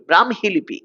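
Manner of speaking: "ব্রাহ্মী" with m before a sounded h, bram-hi; correct pronunciation. Shown as a demonstration. Teacher models the word for students, correctly pronounced. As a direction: say "ব্রাহ্মী" as bram-hi, falling at the end. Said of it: "এই শব্দটার উচ্চারণ হচ্ছে এটা".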